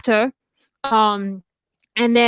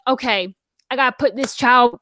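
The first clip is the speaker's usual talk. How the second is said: put-on Southern US accent. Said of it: "I can't stop talking Southern".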